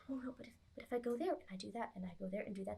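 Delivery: fast anxious muttering creature; mumbling under breath. Acted. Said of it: "mumbling under its breath".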